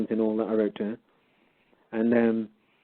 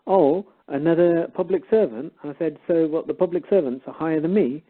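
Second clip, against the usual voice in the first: mock surprise, pitched up; higher, teasing incredulity; making fun; 6 semitones higher than usual. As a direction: swoop up on a sarcastic question. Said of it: "then I started making fun".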